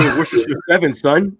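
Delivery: loud, high Boston tough guy; rowdy Boston street accent. Pretend. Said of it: "That was my Boston accent".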